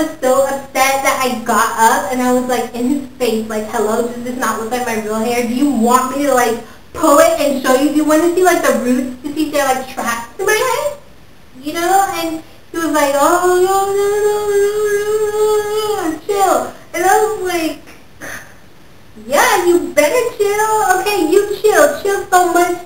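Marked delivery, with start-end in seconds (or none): 3.7-11.0 mock angry confrontation. Confronting guy in his face. 13.1-16.7 high, pleading "no, no, no"; a scared guy begging her to calm down; panicky backing off. Retold or imitated. 19.3-22.8 bossy telling off. Retold or imitated. She tells guy off.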